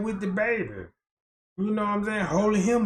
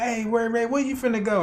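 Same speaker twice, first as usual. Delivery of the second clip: calling out; 5 semitones higher, 4 dB louder than usual. Retold or imitated. Calling out to a friend.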